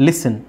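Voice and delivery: "ಲಿಸನ್" as "lis-sun", no T; silent T. Shown as a demonstration. Teacher modelling listen for students, silent T. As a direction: glide from S straight into the N syllable of "ಲಿಸನ್". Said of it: "ಇಲ್ಲಿ ಟಿ silent ಆಗುತ್ತೆ".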